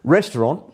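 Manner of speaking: restaurant in plain English, REST-uh-rahnt; the English way of saying restaurant; English pronunciation. Shown as a demonstration. Guest demonstrates both ways on request, English take. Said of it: "say them both ways".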